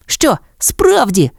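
high, drawn-out query; doubtful questioning. A narrator's reading. Puppy Patch questioning his sister, high doubtful query. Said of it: "перепитав Петч".

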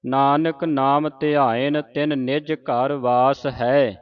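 slow, stop after ਹੈ; pause after ਹੈ. Shown as a demonstration. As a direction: rest on the final ਹੈ. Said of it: "ਇੱਥੇ ਵਿਸਰਾਮ ਹੈ".

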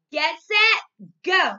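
loud, high starter's shout; race start call. Acted.

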